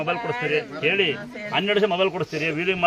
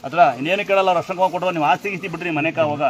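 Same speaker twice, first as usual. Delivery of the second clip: louder, pleading with the brothers; loud urging; 5 dB louder than usual. Real, not acted. Giver urges brothers to give sisters gifts, loud. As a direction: press the brothers to give, raised voice.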